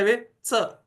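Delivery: वे च with ch pressed toward teeth, like ts; Marathi dental-palatal ch. Shown as a demonstration. Teacher demonstrating the Marathi च, tongue on the teeth. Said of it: "इन दोनों को मिलाकर करते हैं".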